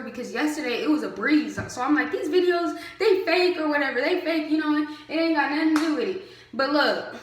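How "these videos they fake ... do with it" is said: higher, louder and fast, brushing it off; dismissive bravado. Retold or imitated. Brushing off the strict-camp videos, cocky and quick. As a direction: wave it off like it's nothing. Her own cocky inner talk.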